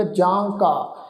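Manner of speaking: ਜਾਂ ਕਾ with a nasal vowel in ਜਾਂ; nasalised wrong reading. Shown as a demonstration. Teacher quotes a mistaken reading to the congregation, ਜਾਂ ਕਾ nasalised. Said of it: "ਪਰ ਇਹ ਜਾਂ ਕਾ ਸ਼ਬਦ ਨਹੀਂ ਆ".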